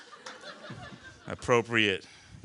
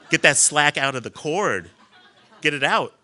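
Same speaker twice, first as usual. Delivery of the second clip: yelling; 3 semitones higher, 8 dB louder than usual. Retold or imitated. Yelling at the boat crew.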